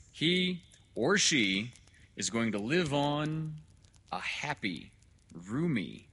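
high, loud oratory with spaced adjectives; declaiming doctor. Acted. Doctor promising father a better planet, grand oratory. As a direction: proclaim each blessing separately, grandly. Dr. Hitz, a figure in the story.

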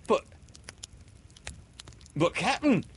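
objecting to his captain; stammering pirate. Acted. Pirate protests.

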